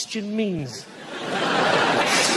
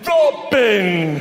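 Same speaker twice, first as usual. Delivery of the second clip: slow, shouted sidekick intro; a loud proud Robin; mock Robin intro; 4 dB louder, much slower than usual. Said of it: "You don't get that with other heroes".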